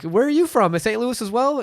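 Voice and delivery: a hint of a chirpy old man; high mock old guy.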